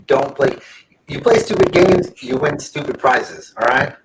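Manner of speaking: choppy robotic stream audio. Real, not acted. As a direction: sound like a glitchy robot. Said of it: "his robot voice is on".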